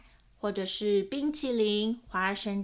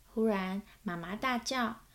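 lively picture-book reading with voiced characters; story narration. A narrator's reading. Narrator reading a children's book aloud, storytelling voice. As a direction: read it like a storyteller to small children.

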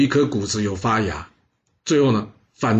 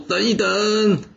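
a sharp high call to halt, raised well up; urgent interrupting shout; 8 semitones higher, much slower than usual. Acted. Minister bursts in on the king, shouting high to halt.

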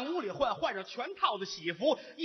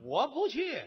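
sulky bride; 5 semitones higher than usual. Acted. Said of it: "你母亲顿足捶胸啊".

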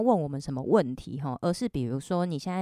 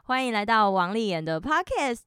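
holding back a giggle; stifled laughter in the voice; trying not to laugh; 3 semitones higher, 3 dB louder than usual. Real, not acted. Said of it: "我有在憋笑，你不要自己笑场啊".

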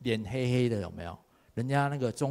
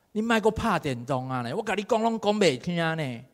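nagging mom; 6 semitones higher than usual. Retold or imitated. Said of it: "我妈拢甲我讲吼".

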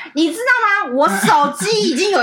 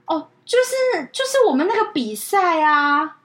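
drawling caller mimic; 2 semitones higher, slower than usual. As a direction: stretch it out, clueless.

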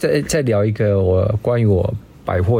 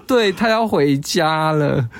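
mimicking teary coworker; 6 semitones higher, slower than usual. Voicing crying coworker.

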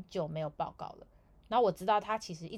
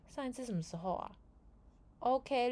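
ordinary talk

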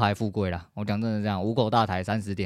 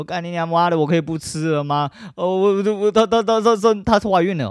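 daughter freaking out; 8 semitones higher, 5 dB louder than usual. Retold or imitated. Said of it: "三个女儿直接大崩溃".

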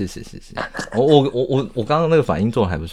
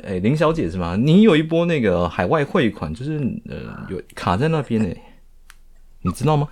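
scam caller voice. Pretend. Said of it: "你的声音听起来就很诈骗".

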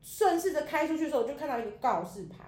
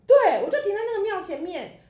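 emphatic repeat; 7 semitones higher, 9 dB louder than usual. Real, not acted.

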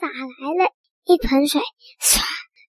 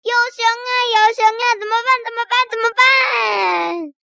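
panicked cry; 5 semitones higher than usual. Acted. Magician panics seeing bear.

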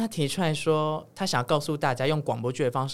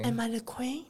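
mock diva; 8 semitones higher, 7 dB quieter than usual. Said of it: "然后就开始唱歌".

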